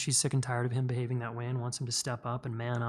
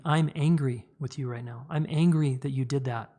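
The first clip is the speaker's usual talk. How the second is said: calm and steady, owning the feeling; calm owned anger. Shown as a demonstration. To a partner, an everyday calm "I'm angry" statement. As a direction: state it plainly and take responsibility. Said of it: "make statements like, and take responsibility".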